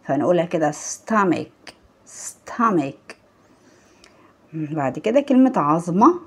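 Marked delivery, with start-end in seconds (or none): 0.7-1.7 "stomach" ending in a k sound; final ch as k. Shown as a demonstration. Teacher modelling the word for learners, "stomach" ending in k. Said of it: "السي اتش اللي في النهاية نطقناها ك". 2.1-3.1 "Stomach" with its ch said as k; final ch as k. Shown as a demonstration. Teacher repeating for learners to copy, "Stomach" ending in k. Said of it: "السي اتش اللي في النهاية نطقناها ك".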